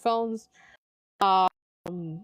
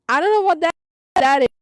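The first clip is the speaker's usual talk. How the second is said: frustrated; 5 semitones higher, 6 dB louder, faster than usual. Acted. Reading out a frustrated reply.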